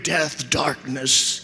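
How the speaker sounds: drawn-out, mock-brooding gloom; gloomy teen poetry. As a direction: intone it slowly like dark teenage poetry. Writing gloomy lyrics after breakup.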